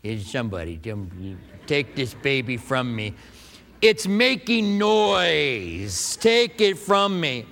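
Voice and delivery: slow, drawn-out mock plea to hand the baby off; helpless guy with a crying baby. Man holding a crying baby begs others to take it, mock pleading. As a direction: beg someone to take the baby, hammed-up. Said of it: "and what do we do?".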